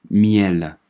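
miel said clearly for repetition; teacher's model reading. Shown as a demonstration. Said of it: "跟着老师把这几个单词来拼读一下". (老师领读miel)

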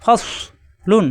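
ফসলুন drawn out very slowly, joining ফস into one syllable; slow drawn demo. Shown as a demonstration. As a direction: stretch ফসলুন so the joined letters are clear. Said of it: "দুই অক্ষর মিলে এক শব্দে উচ্চারণ হবে". (খুব ধীরে টেনে ফসলুন)

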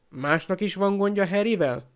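mildly menacing question; threatening. Acted. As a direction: dare anyone else to object. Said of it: "kérdezte fenyegetően".

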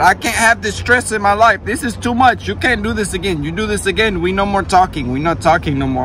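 retold freak-out, high and loud. Imitating her stressed out over the lost van, freaking out. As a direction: mimic her panicked, high-pitched scolding. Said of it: "she is freaking out".

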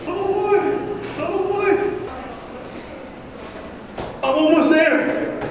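squeaky high cartoon bird voice; high excited crow voice. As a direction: chirp it out high and eager.

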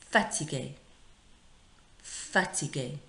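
"fatigué" said distinctly, ending in "ay"; model pronunciation. Shown as a demonstration. Teacher modelling "fatigué" for pupils to repeat, careful pronunciation. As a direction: say "fatigué" carefully with the final accented E sounded. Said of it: "Same accent".

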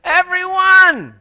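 high, loud and slow proclamation; exclaimed. Real, not acted. Preacher answers own question, slow loud triumphant cry. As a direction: stretch it out in triumph.

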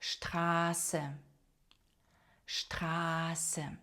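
Штрасе with long a and hissed s; German Straße, softly, slowly drawn out; voiceless ß. Shown as a demonstration. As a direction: stretch the a in Штрасе, keep s unvoiced. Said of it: "як один глухий звук С".

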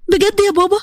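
surprised. Acted. Daughter stunned by her father's offer, surprised. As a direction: jump up in pitch on بجد in disbelief.

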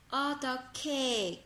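slow, with 어떻게 said as "eo-tteo-ke"; careful pronunciation. Shown as a demonstration. Teacher showing students how 어떻게 is said, said slowly. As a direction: sound out 어떻게 deliberately, the 게 as "ke". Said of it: "ke các bạn nhé".

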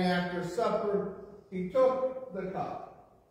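ordinary delivery

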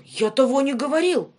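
shout. Acted. Ivan denying before the tsar, loud shout. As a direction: cry it out in protest. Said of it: "закричал он".

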